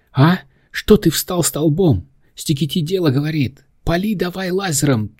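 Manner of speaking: high, scolding commander; yelling. A narrator's reading. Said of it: "заорала".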